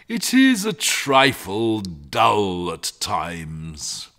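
a lightly voiced, genial old dragon; easy-going dragon, slowing at the end; growling dragon guarding treasure. Dragon chats with the boy.

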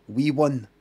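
"wee one" as two separate words; spelled-out pronunciation. Shown as a demonstration. Showing the source word, "wee one" sounded out in full. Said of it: "comes from a shortening".

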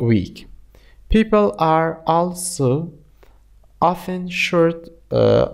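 slow, measured English reading for learners; slow read-aloud. Shown as a demonstration. Teacher reading a lesson text aloud to students, slow and deliberate. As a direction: read the passage slowly, phrase by phrase, with pauses.

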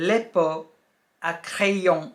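le pot à crayon with a nasal "krayon" ending; le pot à crayon, said as a model; French pronunciation. Shown as a demonstration. Teacher naming the pencil pot, careful French. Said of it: "ก็คือ".

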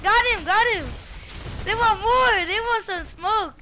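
loud, high hype yell; hype shouting. Real, not acted. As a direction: shout like you're winning the fight. Hyped fight calling.

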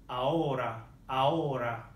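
"ahora" with silent H and R tapped like a D; teacher's careful "ahora" with a tapped R; Spanish tapped R. Shown as a demonstration. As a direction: model "ahora" clearly, flicking the R. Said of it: "is the Spanish R. It's like a D".

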